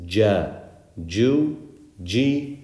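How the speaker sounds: "ja, ju, G" with a hard English j; firm dj at the start of "ja, ju, G"; correct jim. Shown as a demonstration. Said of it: "similar to our English G".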